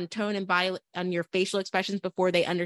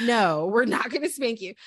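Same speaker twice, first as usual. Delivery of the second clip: laughing; 3 semitones higher than usual. Retold or imitated. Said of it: "I'm like".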